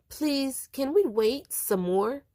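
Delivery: put-on high, pleading child voice. A narrator's reading. Boy pleading to wait for father.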